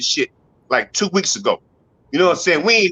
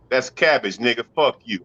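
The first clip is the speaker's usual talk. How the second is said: dismissive worker; 8 semitones lower, 3 dB quieter than usual. Retold or imitated. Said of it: "He gonna tell me".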